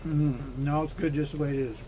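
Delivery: talking with a mouth full of food; words round a bite of egg salad. Real, not acted. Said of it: "Jordan make me talk with my mouth full".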